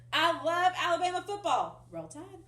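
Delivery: loud, high football cheer; cheering fan. Shown as a demonstration. Teacher shouting her favorite football cheer. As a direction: cheer it like a game-day fan. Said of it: "my favorite".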